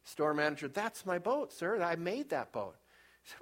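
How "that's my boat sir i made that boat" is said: put-on excited boy. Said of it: "He runs in all excited".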